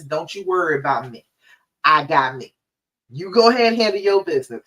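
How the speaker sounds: firm, measured boundary-setting; with conviction. Acted. Modelling what to tell anyone who meddles, said with conviction. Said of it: "you gotta say it with conviction".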